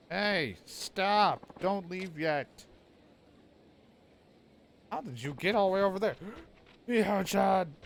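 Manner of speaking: put-on high, pleading child's voice calling after a friend. Mio calls after her leaving friend, high pleading child voice. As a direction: shout after her like a desperate kid. Kid chasing departing friend.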